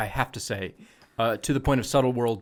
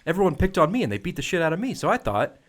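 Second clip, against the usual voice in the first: squire voice; 6 semitones higher, 4 dB louder than usual. Retold or imitated. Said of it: "just like".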